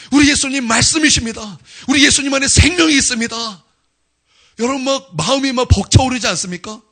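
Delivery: loud, high, ringing proclamation; full-force preaching. Acted. Preacher to congregation, proclaiming in full force. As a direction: preach it like thunder.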